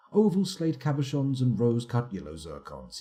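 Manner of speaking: "Oval slate cabochons" with stress on the wrong syllables. Shown as a demonstration. Reading artifact description aloud, misplacing syllable stress. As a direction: lean on the odd syllables of "cabochons" and "zircons". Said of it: "putting the emphasis on the wrong syllables".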